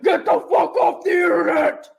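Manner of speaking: a mock shouted rant, with a bit of a laugh; imitating angry husband. A wife mocking her husband's gruff yell, half-laughing. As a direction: mimic a grumpy husband barking from the other room. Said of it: "You sound like the dude from a nu-metal band".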